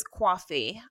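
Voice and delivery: New York "coffee", said as "cwawfee"; one-word New York accent attempt. Shown as a demonstration. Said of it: "The only New York accent I can do".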